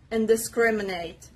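"Indiscriminate" stressed on the syllable starting with S; careful model of "Indiscriminate", leaning on the "scrim" syllable. Shown as a demonstration. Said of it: "The stress is on the letter S".

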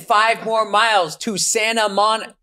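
high, slow robotic navigation voice; GPS voice impression. Host mocking the slow map voice, robotic. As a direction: drone on like a sat-nav. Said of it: "It's like".

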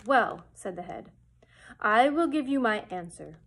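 loud, commanding wizard head; booming wizard Oz. Acted. The great head sets Dorothy his price, loud and commanding. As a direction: lay down the terms loudly, like a stern wizard.

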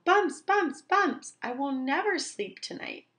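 high, loud frantic shout. Acted. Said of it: "shouted Owl".

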